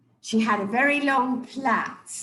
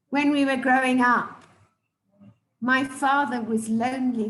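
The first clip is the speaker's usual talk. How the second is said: retelling a speech. Retold or imitated. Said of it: "she didn't even know she used an anaphora".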